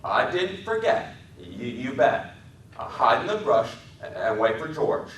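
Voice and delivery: a gentle giant reciting his lesson; Lenny's childlike voice. A narrator's reading. Lenny reassuring George in a high childlike voice. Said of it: "Lenny said softly".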